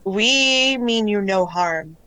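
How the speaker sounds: slow, drawn-out placid assurance; measured otherworldly calm; calm collective voice. Acted. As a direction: reassure slowly as many voices in one. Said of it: "the tone is very calm".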